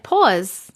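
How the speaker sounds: "pause" with a rounded "aw"; New York "aw" vowel in "pause"; Long Island pronunciation. Shown as a demonstration. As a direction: say "pause" as "pawz". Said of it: "That's what I'm saying".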